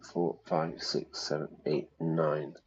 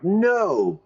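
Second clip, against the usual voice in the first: high, loud wail of refusal; dismayed outcry; 11 semitones higher, 5 dB louder than usual. Real, not acted. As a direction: cry out in exaggerated dismay. Dismayed at releasing the suspect.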